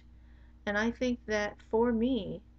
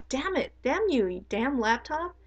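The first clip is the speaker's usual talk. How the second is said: higher, louder mock curse at the laptop; mock frustrated cursing; 5 semitones higher, 4 dB louder than usual. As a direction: snap at the frozen laptop, half-playful.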